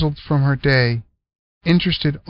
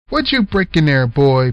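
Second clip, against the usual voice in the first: gruff uncle; 4 dB louder than usual. Acted. Unc accusing Cliff.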